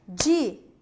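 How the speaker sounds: Diâmetro in four isolated beats; syllable-by-syllable split. Shown as a demonstration. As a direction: break Diâmetro into four syllables with long pauses. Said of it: "Quatro sílabas".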